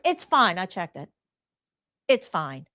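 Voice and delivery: dismissive CNA. Retold or imitated. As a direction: shrug it off as if nothing's wrong. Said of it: "See, it's like".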